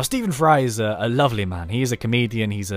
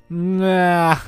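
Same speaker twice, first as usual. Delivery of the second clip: dismissive nah; 6 semitones higher, 6 dB louder than usual. Retold or imitated. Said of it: "I'm kind of like".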